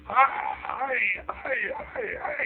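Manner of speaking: very high, thin little greeting voice; squeaky rabbi greeting. Acted. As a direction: pipe it up like a tiny nervous man. Rabbi greets ogre in story.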